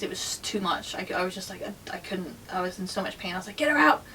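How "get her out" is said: screaming. Retold or imitated. Woman in labour screaming at her partner, higher and loud. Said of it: "I was screaming at Gary".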